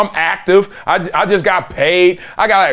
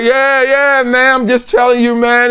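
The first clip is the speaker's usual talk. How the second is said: hanger-on; 5 semitones higher than usual. Retold or imitated. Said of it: "And he's like".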